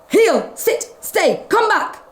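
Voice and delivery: owners' commands. Acted. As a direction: order the dogs about. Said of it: "shouted the dog's people".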